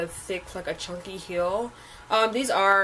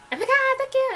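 high, louder gushing thanks, imitating herself; retold thrilled thanks; 5 dB louder, faster than usual. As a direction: squeal the thank-you as she did then. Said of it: "and I was like".

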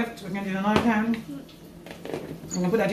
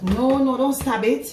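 laughing mock alarm; 5 semitones higher, 6 dB louder, slower than usual.

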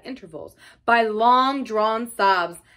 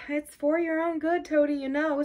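higher-pitched, coaxing reassurance; kindly; 6 semitones higher than usual. A narrator's reading. Rat hauling struggling Toad upstairs, kindly. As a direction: soothe him as he protests. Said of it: "said the rat kindly".

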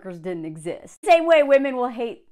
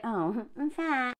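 mock-mournful, softly drawn out; a touch of mock woe; 3 semitones higher, 6 dB quieter, slower than usual. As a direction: read it with hammed-up self-pity. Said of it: "she said mournfully".

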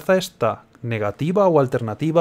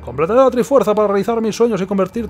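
haughty villain; 6 semitones higher than usual. Acted. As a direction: proclaim it like a vain artist-villain. Reading villain Yuga's lines.

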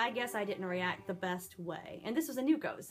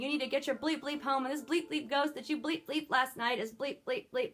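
hysterical angry rant; 4 semitones higher than usual. Retold or imitated. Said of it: "quite hysterical and angry".

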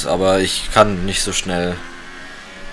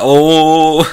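high robotic "oh"; 6 semitones higher, 5 dB louder than usual. Pretend. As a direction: say it like a machine. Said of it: "wenn du das mit Roboterstimme machst".

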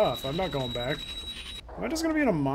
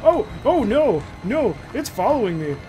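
scared horror game streamer; 3 semitones higher, 5 dB louder, slower than usual. Real, not acted. Monster following the player.

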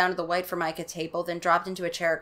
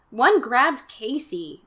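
frightened report; 5 semitones higher, 5 dB louder, much slower than usual. Acted. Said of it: "Margaret told him".

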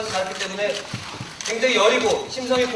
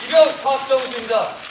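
slow, firm rank-and-name report; korean military style; 3 dB louder, slower than usual. Acted. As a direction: report in like a fresh recruit. Recruit states rank and name.

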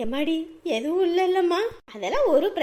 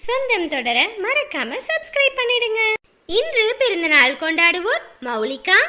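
vlog outro. Acted.

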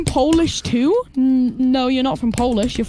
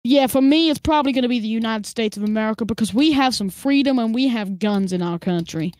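put-on joke American accent; 3 semitones lower than usual. Streamer pretending to be an American naming a favorite country, joke American accent. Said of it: "I was doing an American accent".

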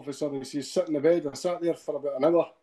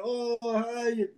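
higher-pitched put-on "hi" of the callers; mock phone greeting; 7 semitones higher, 4 dB quieter than usual. Mimicking the callers' greeting to wife.

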